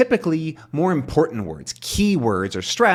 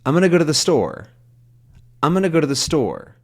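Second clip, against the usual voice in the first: quick, higher run with "gonna go to the" squeezed; smushed together; 4 semitones higher, faster than usual. Shown as a demonstration. Teacher showing learners natural sentence rhythm, smushed together. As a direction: smush the small words into one run before "store". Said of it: "smush this all down together".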